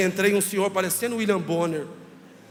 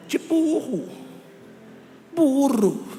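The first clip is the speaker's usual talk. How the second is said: indignant punchline; 5 semitones higher, 3 dB louder, much slower than usual. Real, not acted. Outraged punchline about being called dumb.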